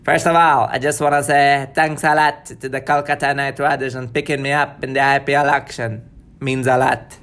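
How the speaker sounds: a lightly done Trinidadian accent; a cricketer's thanks in a Trinidadian accent; a hint of a Caribbean accent. Shown as a demonstration. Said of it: "Trinidad and Tobago".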